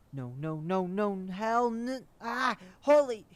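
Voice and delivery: high terrified scream. Acted. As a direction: scream as you are dragged off. Jim attacked, screaming.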